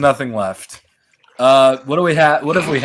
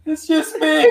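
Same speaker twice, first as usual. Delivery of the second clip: mock reassurance; 11 semitones higher, slower than usual. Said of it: "You could have said".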